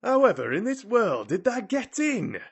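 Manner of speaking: loud, high Yorkshire exclamation; curious outburst. A narrator's reading. Ben demanding how Mary got in, curious outburst. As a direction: burst out, overpowered by curiosity. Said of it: "next words burst out".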